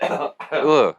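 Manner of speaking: gagging noise in the throat. Real, not acted. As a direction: gag as if choking on a swallow. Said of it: "all sound like they're gagging".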